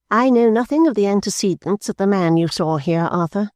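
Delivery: cold, unbending reply to her son; stern old mother. A narrator's reading. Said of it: "in her usual stern voice".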